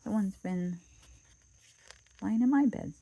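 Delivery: high, loud little bear shout; baby bear cry. Acted. Baby Bear finding Goldilocks in bed, high loud cry. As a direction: squeal it out like the smallest bear.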